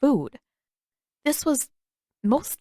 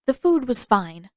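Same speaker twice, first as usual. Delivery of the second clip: clipped a touch short and sharp; a little sharp; 2 semitones higher than usual. Acted. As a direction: brush off the question, a bit curt. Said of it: "Her tone sounded a little sharp".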